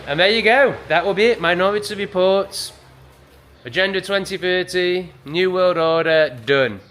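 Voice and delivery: loud, high, fired-up rant. Real, not acted. Ranting to viewers about a coming agenda, loud and high. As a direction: belt it out like a fed-up ranter.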